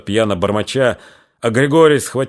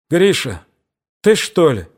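put-on young sister's voice; 6 semitones higher than usual. A narrator's reading. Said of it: "Дуняшкин голос".

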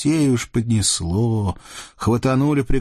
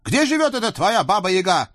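high, pressing demand; stern Cossack girl; 12 semitones higher than usual. Acted. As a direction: pin the devils down. Казачка давит на чертей. (суровая казачка)

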